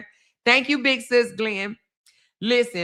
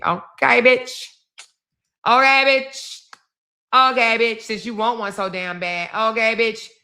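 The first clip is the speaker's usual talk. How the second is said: loud taunting cheer; 3 semitones higher, 4 dB louder than usual. Real, not acted.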